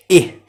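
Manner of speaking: "إيه" as a quick "ih", like a little laugh; short I sound. Shown as a demonstration. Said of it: "بضحك كده". (نطق "إيه" قصيرة كأنها ضحكة)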